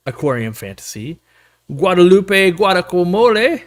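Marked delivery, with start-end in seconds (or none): 1.7-3.6 name rolled out slowly in a light Spanish accent; a hint of a Spanish accent on the name; accidental Spanish accent. Real, not acted. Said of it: "an accent on that".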